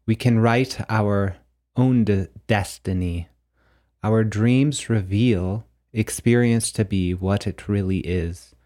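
measured, declamatory reading of mystical verse; deliberate recital with a pause after each statement; poetic book reading. Acted. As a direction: read it out like solemn poetry, line by line. Reads own poetic book text aloud.

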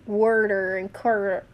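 "worder" with an R inside; imitated R-heavy pronunciation. Telling how Richie says it, "worder" with an added R. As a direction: copy his "worder", R before the D. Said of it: "how Richie says".

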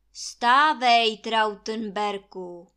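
loud, slow stern command; Krakonoš thundering at Trautenberg. Acted. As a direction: order him up like a mountain lord. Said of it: "poroučí Krakonoš".

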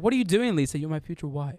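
mock jealous outburst fading to mutter; starts off angry. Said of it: "he, like, starts off angry".

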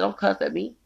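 retold high-pitched warning; cussing out. Speaker quoting their warning to a begging woman, heated. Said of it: "I cussed the bitch out".

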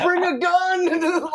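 slow, high, laughing mock drawl of the line; imitating him. Friend retelling his buddy's warning, imitating him slowly with laughs. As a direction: ham up his dead-serious warning. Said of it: "He actually said that".

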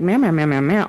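low, playful repeated meows; casual mock meowing; cat meows. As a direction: meow like a cat again, lightly. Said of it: "That's why I was like".

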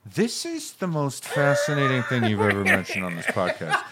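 laughing, put-on awe; mock fascination. Co-host teasing the listeners' reaction, mock fascination. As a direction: tease with exaggerated interest through a laugh. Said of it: "I like how you're like".

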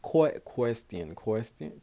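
slow "Que-, question." with aspirated kw; careful try. Real, not acted. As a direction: break "Que-, question." apart slowly. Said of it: "I hate fucking saying that word".

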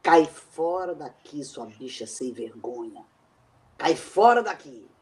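loud, furious order to get out; angry yelling. Acted. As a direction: throw him out at full voice. Woman throws him out.

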